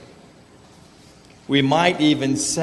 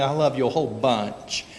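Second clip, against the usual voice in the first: Alabama twang. Retold or imitated. Girlfriend telling him how much she loves him, light Alabama twang. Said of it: "she said it in her Alabama twang".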